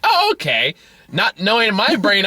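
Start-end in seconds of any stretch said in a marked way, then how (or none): 0.0-0.7 put-on child accepting. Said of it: "It's like".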